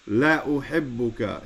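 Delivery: "La" kept short before "uhibbuka"; "La" as a short emphatic particle, vowel not held. Shown as a demonstration. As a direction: say "La" quickly, running into "uhibbuka". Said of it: "that you say it short".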